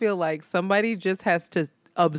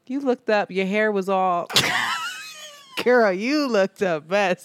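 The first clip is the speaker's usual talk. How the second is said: excited retelling. Retold or imitated. Retelling drunk friend's moment.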